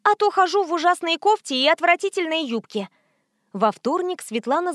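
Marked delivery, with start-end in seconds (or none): 0.0-2.9 daughter declaring. A narrator's reading. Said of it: "заявила Света".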